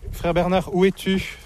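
calling out. Real, not acted. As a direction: call across the yard for him.

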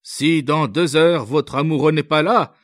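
high, loud impatient officer; outburst. A narrator's reading. Officer to the young girl, losing patience, loud. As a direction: shout her down, then set the deadline. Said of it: "Il s'écria".

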